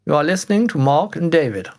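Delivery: put-on Queen's English radio voice; BBC announcer. Podcaster introducing himself and co-host, mock BBC announcer. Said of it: "the B B C".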